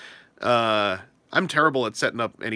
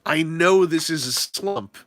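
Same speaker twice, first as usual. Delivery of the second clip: calm self-reassurance; 3 semitones higher, slower than usual. Retold or imitated. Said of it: "when you're like".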